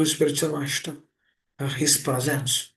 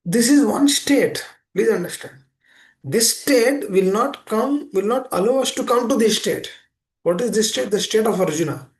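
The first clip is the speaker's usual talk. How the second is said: emphatic preaching; 5 semitones higher, 6 dB louder than usual. Real, not acted. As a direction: lean in hard and stretch each word out. Preacher stresses the key point.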